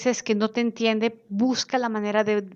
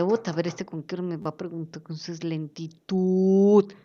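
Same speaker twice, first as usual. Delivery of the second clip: impatient; 4 semitones lower than usual. Retold or imitated. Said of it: "te va a quedar viendo con cara de".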